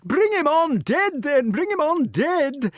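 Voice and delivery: put-on high, loud cheering old king; yelled. A narrator's reading. King cheering his hound from behind bars, high and loud. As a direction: urge the hound on wildly. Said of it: "yelled King Pellinore".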